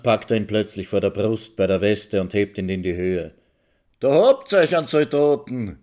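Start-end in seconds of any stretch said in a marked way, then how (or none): 4.0-5.8 loud, higher triumphant shout; a boastful yell. A narrator's reading. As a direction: bellow it while lifting him up. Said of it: "schreit Maxl".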